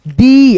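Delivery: दी with a long "eee", falling at the end; drawn-out ई. Shown as a demonstration. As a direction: stretch दी out as "deee". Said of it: "ऐसे करके".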